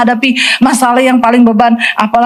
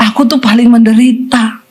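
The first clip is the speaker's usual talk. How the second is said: mock self-pity. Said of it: "mental yang paling menderita".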